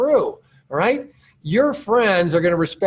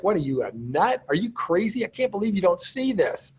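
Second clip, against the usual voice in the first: scoffing disbelief at a prospect, pitched up; mock the doubter as if they're crazy; condescending attitude; 3 semitones higher, 4 dB quieter than usual. Coach imitating a pushy seller scoffing at a doubtful prospect, condescending. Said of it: "you come off with an attitude like".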